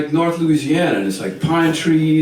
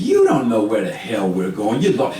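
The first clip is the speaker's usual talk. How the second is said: mildly acted nagging complaint; hammed-up griping; bitching. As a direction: carp like a bossy wife. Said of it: "bitching the whole time".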